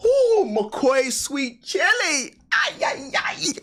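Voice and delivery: high, slow ooh of delight; drawn-out savoring. Real, not acted. Remembering McCoy crisps, slow high savoring. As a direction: stretch it out, savoring.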